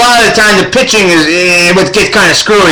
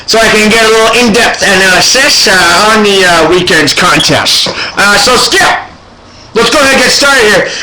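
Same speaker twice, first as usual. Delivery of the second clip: talking around a pipe stem; pipe in mouth. Pretend. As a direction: pipe clenched in the teeth. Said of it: "put my pipe in my mouth".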